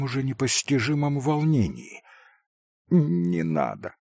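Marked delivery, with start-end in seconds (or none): 2.9-3.9 slow, pained begging that swells at the end; anguished cry. A narrator's reading. Sick boy begs his friend to stop, in anguish. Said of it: "с горестным надрывом в голосе воскликнул Илюша".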